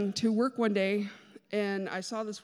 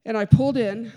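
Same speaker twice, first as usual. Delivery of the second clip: loud emphatic; 10 dB louder than usual. Real, not acted.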